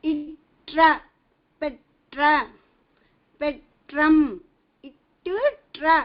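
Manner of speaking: "Itra" and "petram" with the retroflex tra sounded out; teacher demo stressing the tra in "petram"; clear pronunciation demo. Shown as a demonstration. Teacher modeling Tamil words for students, deliberate. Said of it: "like that".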